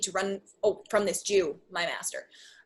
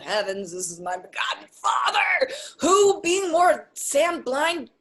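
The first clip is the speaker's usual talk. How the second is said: loud, theatrical cry of discovery; hammed-up astonishment; astonished exclamation; 3 semitones higher, 3 dB louder than usual. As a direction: exclaim in comic shock, drawing out the words. Lancelot exclaims on seeing his father.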